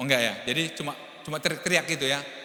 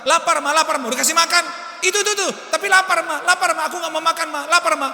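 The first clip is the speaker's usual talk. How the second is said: put-on whining child; 11 semitones higher, 8 dB louder than usual. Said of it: "Sama kan?".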